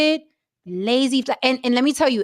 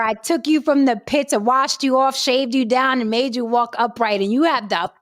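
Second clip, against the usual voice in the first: mock outrage; 3 semitones higher than usual. Woman dressing down the man she upgraded, mock outrage. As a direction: tear him down with hammed-up indignation.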